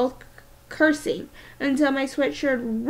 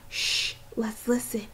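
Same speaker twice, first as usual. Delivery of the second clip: whisper; 7 dB quieter than usual. A narrator's reading. Hiding, listening for pursuers.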